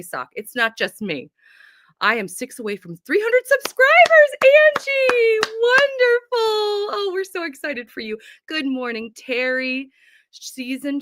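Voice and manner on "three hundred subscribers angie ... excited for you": high, loud celebratory cry; big squealing congratulations; excited cheer. Real, not acted. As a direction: cheer it out, stretching the words. Cheering a viewer's subscriber milestone.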